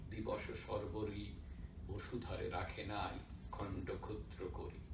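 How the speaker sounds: measured Bengali poem recital, falling away line by line; poem recitation. Real, not acted. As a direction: recite Bengali verse in phrases with pauses. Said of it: "I'll do a few lines in Bengali".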